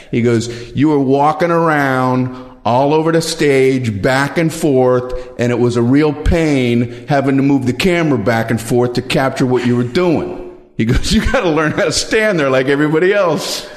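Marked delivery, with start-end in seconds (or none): 0.7-10.6 attempted Jersey accent. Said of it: "I can't do a Jersey accent". 11.1-13.7 higher, lightly voiced Jersey cameraman lecturing; a mild mock Jersey scold, pitched up; attempted Jersey accent. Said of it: "I can't do a Jersey accent".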